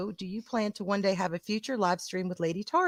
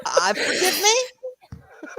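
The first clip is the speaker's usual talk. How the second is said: mock plea; 10 semitones higher, 5 dB louder, much slower than usual. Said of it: "I'm just like".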